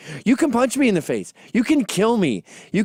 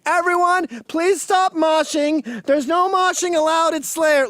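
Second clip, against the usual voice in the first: high, slow shouted plea; mock plea over the noise; 10 semitones higher, slower than usual. Speaker begging a mosh pit, higher slow mock shout. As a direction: plead to a moshing crowd. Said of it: "I'm sitting there screaming".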